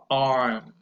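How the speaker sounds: arm with an open ah, jaw dropped; vowel demo. Shown as a demonstration. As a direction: stretch the ah in arm. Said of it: "So you say".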